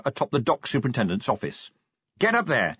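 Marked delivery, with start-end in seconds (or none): 2.2-2.8 raised-pitch, urgent command; ordering. A narrator's reading. Vimes sending the imp up the tower, ordering. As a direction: give it as an order. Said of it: "he ordered".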